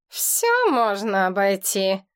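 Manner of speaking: slow, gruff grumble; understated slow grumble; grumbling. Acted. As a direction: mutter it darkly, slowly. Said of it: "буркнул глава клана".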